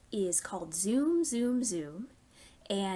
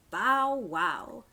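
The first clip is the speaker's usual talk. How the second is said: dog bark voice; 3 dB louder than usual. Acted. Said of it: "The dog said".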